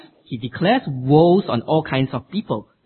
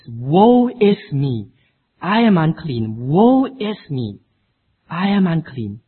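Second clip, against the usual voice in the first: Isaiah's cry; 2 semitones higher, 4 dB louder, slower than usual. Acted. Preacher voices Isaiah's cry.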